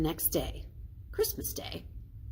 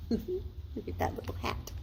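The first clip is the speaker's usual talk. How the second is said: laughing aside; 6 semitones higher, 7 dB quieter than usual. Real, not acted.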